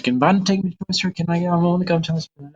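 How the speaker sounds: put-on high, pleading little-kid whine; whiny kid. Retold five-year-old nagging mom at lunch, whiny. Child whining for toy store.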